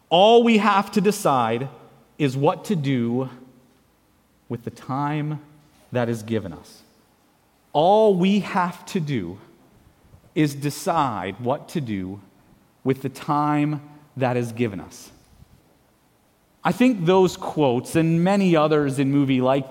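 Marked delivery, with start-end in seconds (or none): 0.1-6.8 solemn recitation. Shown as a demonstration. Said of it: "reciting a Lord of the Rings line". 7.7-15.1 earnest repeat. Shown as a demonstration. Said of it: "repeating the line slowly".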